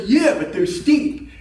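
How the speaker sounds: high, slow mock-winded excuse; huffing and puffing. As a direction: imitate a winded man making excuses. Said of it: "he's huffing and puffing".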